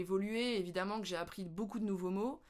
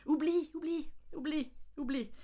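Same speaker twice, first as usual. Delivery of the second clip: high sing-song Oublie; mock sing-song dismissal; 6 semitones higher than usual. Real, not acted. Telling viewers to forget the phrase, sing-song. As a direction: wave it away in a chant.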